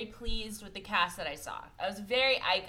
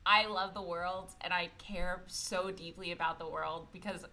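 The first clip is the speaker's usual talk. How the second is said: Castiel; 5 semitones lower, 4 dB quieter than usual. Retold or imitated. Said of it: "Castiel was like".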